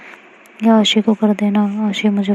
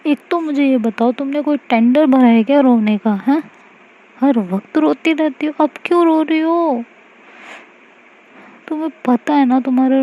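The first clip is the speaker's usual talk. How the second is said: higher, affectionate mock scolding; teasing exasperated girlfriend; 4 semitones higher than usual. Aashi to weeping Mahi, playful exasperation. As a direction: roll your eyes at her tears, fondly.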